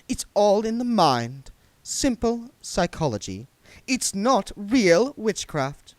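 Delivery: high, loud contemptuous sneer; scornful young witch. A narrator's reading. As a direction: belittle the old woman to her face. Diamanda insulting Granny Weatherwax.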